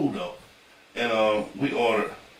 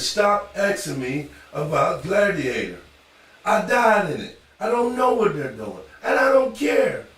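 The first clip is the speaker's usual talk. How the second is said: mock exasperated actor, pitch and volume climbing; Russell Crowe, fed up; 6 semitones higher, 3 dB louder, slower than usual. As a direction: protest slowly, then louder and higher, playing it for laughs. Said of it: "They keep asking him how he feel".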